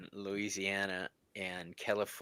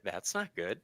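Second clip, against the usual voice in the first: mock ominous mutter; 2 semitones lower, 7 dB quieter than usual. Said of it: "here's my favorite".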